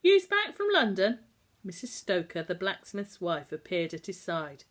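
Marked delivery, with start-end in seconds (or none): 0.0-1.2 much higher, loud surprised question; amazed he is back; a loud, high burst of surprise. Acted. Blacksmith greets returning Tom.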